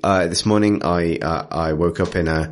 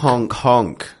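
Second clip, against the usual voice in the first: higher, goofy goose honks; 6 semitones higher than usual. Retold or imitated. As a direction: honk like a cartoon goose. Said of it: "Quoth the goose".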